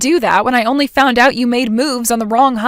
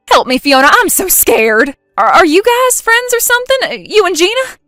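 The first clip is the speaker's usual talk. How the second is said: higher and louder, scared and rushing; panicked plea; 6 semitones higher, 5 dB louder than usual. Acted. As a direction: beg like the door is about to break. Jen trapped, wife banging on door.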